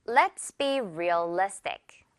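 slow sentence, "realistic" stressed on "li"; careful stress. Shown as a demonstration. Teacher modelling for repetition, "realistic" stressed on "li". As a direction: land firmly on "li" in "realistic". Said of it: "강세 주의하면서".

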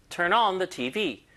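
slow, on and T V pushed; stress at the end. Shown as a demonstration. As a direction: lean on the back half. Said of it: "강세를 주로 뒤에다 조금 더 줘요".

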